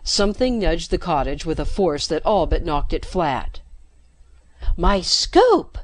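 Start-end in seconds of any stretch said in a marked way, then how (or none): 4.8-5.8 louder, lifted cry of relief; excited exclamation. A narrator's reading. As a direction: burst out as rescue arrives. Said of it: "Jennifer exclaimed".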